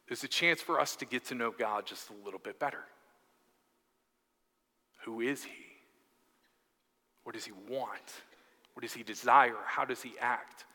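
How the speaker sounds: soft, intimate sermon voice; hushed preaching. Acted. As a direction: draw them in quietly, letting each question land. Preacher drops to quiet reflection.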